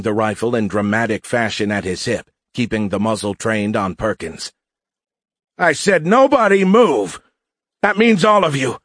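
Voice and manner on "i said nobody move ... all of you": put-on old-movie bank robber. A narrator's reading. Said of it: "sounding like a bank robber in an old movie".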